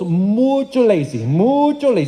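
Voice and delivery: hammed-up Spanish accent, stretching "mucho". Preacher quoting his gardener friend, in a put-on Spanish accent. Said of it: "This is my best Spanish accent".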